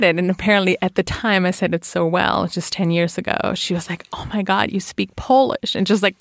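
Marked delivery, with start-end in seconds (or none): 4.1-5.8 amazed realtor. Retold or imitated. Realtor amazed by her Polish sentence.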